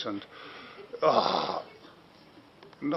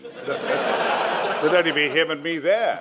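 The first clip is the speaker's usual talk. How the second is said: laughing; much slower than usual. Real, not acted. Amused by the lone ovation.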